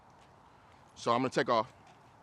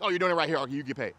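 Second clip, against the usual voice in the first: quick praise; much faster than usual. Real, not acted. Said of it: "So I quickly bounce to, like".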